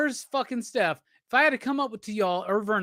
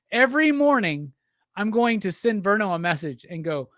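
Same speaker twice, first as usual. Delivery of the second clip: tipsy slurring streamer. Real, not acted. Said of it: "I am drunk".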